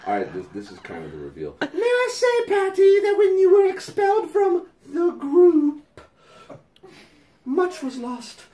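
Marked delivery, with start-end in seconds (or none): 1.6-8.4 hammed-up letter voice. Reading the letter to Patty, hammed-up prim voice. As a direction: read it like a sanctimonious fan pouring her heart out. Reads fan letter aloud.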